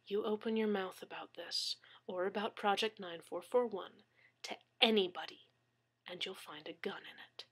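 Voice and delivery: menacing whisper. Acted. Gunman quietly threatening captive.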